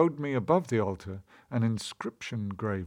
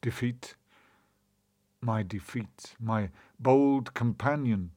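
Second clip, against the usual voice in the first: poem recitation. A narrator's reading. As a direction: recite it like a solemn prose poem.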